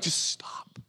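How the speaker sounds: hushed, breathy whisper of Jesus; whispering Jesus telling the worrier to stop; whispered command. Retold or imitated. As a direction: whisper it like a gentle rebuke. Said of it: "Jesus like".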